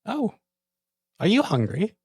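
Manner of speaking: high, bright-pitched noble officer, pleased; lieutenant character voice. Acted. The lieutenant to the guard, high and gracious.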